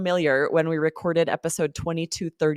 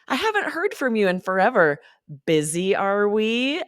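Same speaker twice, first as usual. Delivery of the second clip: teasing intonation; 4 semitones higher than usual. Shown as a demonstration. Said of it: "you've got this intonation".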